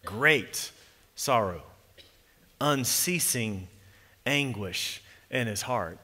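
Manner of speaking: Great, sorrow, unceasing each set apart with pauses; weighted adjectives. Shown as a demonstration. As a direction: let every adjective land heavily. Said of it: "He adds these adjectives".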